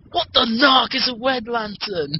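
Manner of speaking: high, hammy Kilowog impression. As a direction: do Kilowog baffled. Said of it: "I love Kilowog's line".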